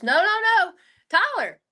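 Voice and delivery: insistent Taylor. Retold or imitated. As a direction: keep correcting her, pitch up. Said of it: "And she goes".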